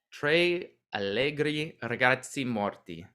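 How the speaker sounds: slow, half American, half Italian accent; an American trying on an Italian accent; mixed American-Italian accent. Shown as a demonstration. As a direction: mangle the band name between American and Italian accents. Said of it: "part of that with an American accent and part of it with an Italian accent".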